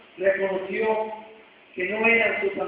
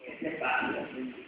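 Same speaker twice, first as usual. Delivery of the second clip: breathy whisper, much softer; hushed reply; 10 semitones lower, 11 dB quieter than usual. Pretend. Imagined believer answering God, whispered. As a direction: whisper it as if caught off guard.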